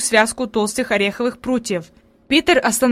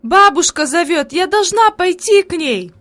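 eager, higher and louder, slow start; insist, pulling away; exclaiming; 7 semitones higher, 4 dB louder than usual. A narrator's reading. Girl tells her aunt she must go, exclaiming. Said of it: "воскликнула".

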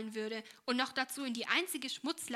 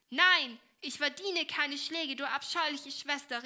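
louder, slow defiant cry; angry child's outburst; 4 semitones higher, 6 dB louder than usual. Acted. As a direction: hurl it back at her sister. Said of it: "rief das Mädchen mit dem Fuß stampfend". (Julie schreit ihre Schwester wütend an, laut und langsam)

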